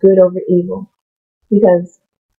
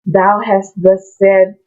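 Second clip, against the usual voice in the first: mock King James English; much slower than usual. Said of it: "talks like this and thou".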